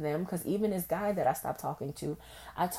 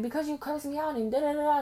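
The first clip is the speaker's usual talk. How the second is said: imitating the other person; 12 semitones higher, 3 dB louder than usual. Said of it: "And you'll be like".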